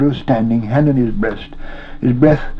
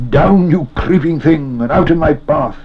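commanding cry, raised pitch; stern command; 6 semitones higher, 3 dB louder than usual. A narrator's reading. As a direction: drive the creature back with your voice. Frodo orders Gollum off.

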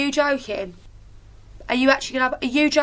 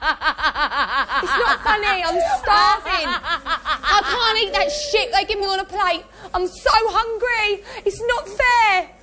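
tearful complaint. Real, not acted. Breaking down over hunger.

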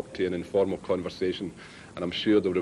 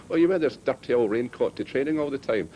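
higher-pitched mock Irish teasing; put-on Irish accent; 6 semitones higher than usual. Prank caller teasing Pat about his raincoat, put-on Irish accent. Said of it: "he put on this Irish accent".

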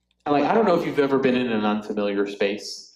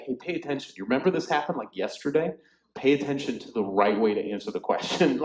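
sassy Jesus. Retold or imitated. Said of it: "sassy Jesus".

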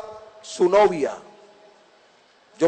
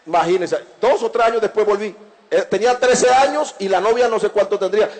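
ordinary talk, nothing marked

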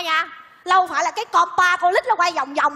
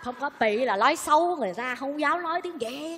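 confidential hush; 6 dB quieter than usual. Acted. Woman explaining why she dares not speak Vietnamese, confidential hush.

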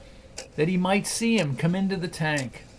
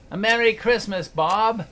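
earnest; 3 semitones higher than usual. Acted. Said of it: "with an earnestness that could not be mistaken".

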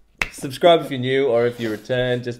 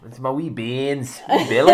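put-on Scottish accent. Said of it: "I love a Scottish accent".

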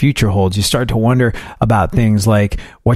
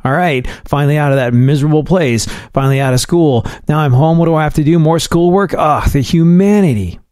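a hint of a sulky teenager, pitched up; whiny teen griping; 3 semitones higher than usual. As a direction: grumble like a kid fed up with homework. Teen self griping about homework.

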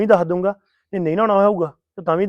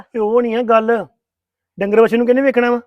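annoyed retort; 5 semitones higher, 4 dB louder than usual. Acted. Husband argues back with wife.

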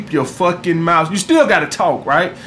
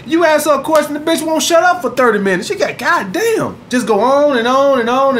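mock chatty woman; 5 semitones higher than usual. Imitating chatty interested woman.

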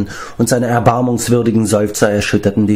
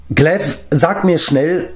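slow-stretched, high-pitched urgent cut-in; urgent interruption; 8 semitones higher, slower than usual. A narrator's reading. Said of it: "unterbrach ihn Taran". (drängend unterbrechend)

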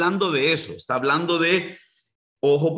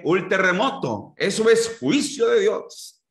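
a hint of a pompous preacher, higher; mocking false prophet; 5 semitones higher than usual. Preacher parodying so-called prophets' judgment talk, lightly mocking. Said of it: "a esos disque profetas".

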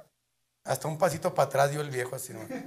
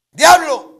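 loud, slow, high summoning; shouting; 12 semitones higher, 14 dB louder, much slower than usual. Acted. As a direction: call the devil out. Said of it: "le empezó a gritar". (invocación a gritos)

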